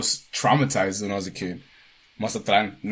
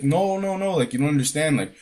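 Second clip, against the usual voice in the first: higher-pitched imitation of a frantic woman; retold freaking out; 4 semitones higher than usual. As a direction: protest in a mildly panicked mock voice. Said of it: "she's, like, freaking out".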